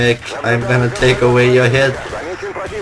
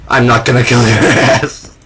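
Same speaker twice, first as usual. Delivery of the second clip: plain voice breaking into a laugh mid-line; laughing retraction; 2 semitones lower than usual. Real, not acted. Gamer retracting his threat at the walker, laughing. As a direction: take back the threat with a chuckle.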